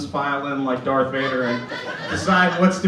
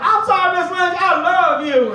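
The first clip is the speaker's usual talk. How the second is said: squeaky doll voice; 12 semitones higher, 4 dB louder than usual. Retold or imitated. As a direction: play a sweet doll apologising to mom. Doll Lester apologises to mom.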